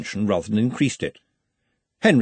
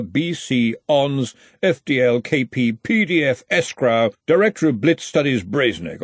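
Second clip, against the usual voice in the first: reading card aloud; 5 semitones higher, 3 dB louder than usual. Acted.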